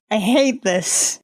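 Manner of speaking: drawn-out, slow complaint; slow repeat. Real, not acted. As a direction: drag every word in frustration.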